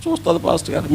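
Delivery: subdued little reply to the pastor; crying boy, imitated. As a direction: answer softly as an upset child would. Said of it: "ఒక పిల్లోడు ఏడుస్తున్నాడు".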